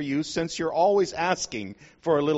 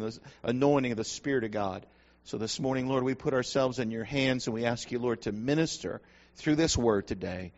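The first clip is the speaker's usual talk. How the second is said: earnest, measured prayer voice; opening prayer before the sermon, earnest; 2 semitones lower than usual. Real, not acted. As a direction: pray over the congregation, steady and sincere.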